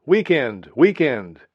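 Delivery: narrator's lightly acted jubilant yell. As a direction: call it out like a wild old man in the square, half-performed. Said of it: "One wild old man yelled".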